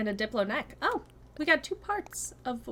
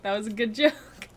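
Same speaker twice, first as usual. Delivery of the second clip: laughing; 5 dB louder than usual. Real, not acted. Reacting to a joke in chat.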